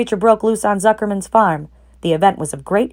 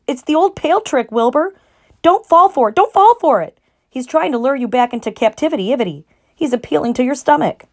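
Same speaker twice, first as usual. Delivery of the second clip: goose warning; 7 semitones higher, 3 dB louder than usual. A narrator's reading. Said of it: "said the goose".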